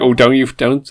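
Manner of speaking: attempted Northern accent slipping into West Country; mock complaint in a West Country accent. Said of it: "oh, that's my West Country accent".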